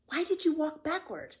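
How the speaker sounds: put-on high, curious boy voice; young boy Tommy. Tommy asks Pippi about walking backward, puzzled boy voice. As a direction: ask it like a puzzled small boy.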